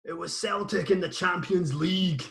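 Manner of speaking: a cleaner Scottish accent, held steady; better Scottish accent. Shown as a demonstration. Redoing the absent dad's line in a better Scottish accent. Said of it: "That's better".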